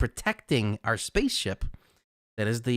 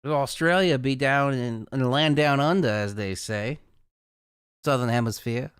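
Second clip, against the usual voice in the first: mock Aussie accent slipping toward Southern US; wobbly put-on Australian accent turning Southern; attempted Australian accent. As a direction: start playfully Australian, drift into a Southern twang. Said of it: "That didn't turn Australian at the end. That turned a little southern".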